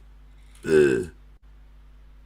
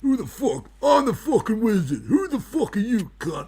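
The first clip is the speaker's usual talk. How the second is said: indignant wizard. Acted. Wizard character challenging a rival.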